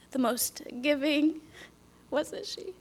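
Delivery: the most giving whispered soft and slow. Real, not acted. Praising her late mother, whispered. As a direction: hush the words the most giving.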